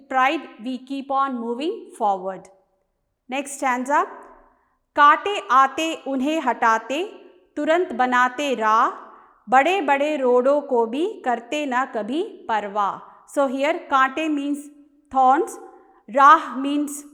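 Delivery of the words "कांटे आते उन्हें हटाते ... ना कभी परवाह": measured Hindi verse reading with rhythmic line breaks; poem recitation. Acted. Teacher reading the short poem to students, poem recitation. Rereads next stanza aloud.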